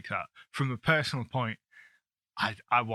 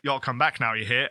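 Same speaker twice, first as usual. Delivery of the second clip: Colonel's parting line; 4 dB louder than usual. Pretend. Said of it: "be like".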